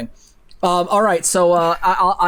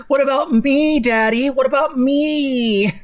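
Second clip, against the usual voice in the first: mock spoiled-child whine, higher; whiny Veruca plea; 5 semitones higher than usual. Streamer mocking a spoiled kid's plea, whiny.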